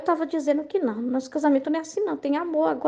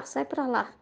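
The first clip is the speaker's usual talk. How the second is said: "sai pra lá" dropped softer, a tossed-off shove; mock brush-off, softer; 2 semitones lower, 6 dB quieter, slower than usual. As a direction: say "sai pra lá" softer, like shooing a spouse away. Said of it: "ela falou assim". ("sai pra lá" mais baixo, enxotando de brincadeira)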